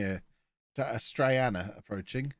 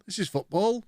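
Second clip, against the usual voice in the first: higher, rising football, pushed harder; more excited; 8 semitones higher than usual. Real, not acted. Streamer admiring the move again, more excited. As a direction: repeat it with bigger delight.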